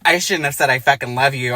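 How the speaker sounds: hammed-up angry reread; mock angry outburst. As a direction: snap the line out in mock fury. Mock rage at the line.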